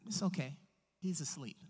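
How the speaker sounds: soft, low reassurance; calm Jesus. Retold or imitated. Jesus reassuring anxious disciples, calm and hushed. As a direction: settle them down, low and unbothered.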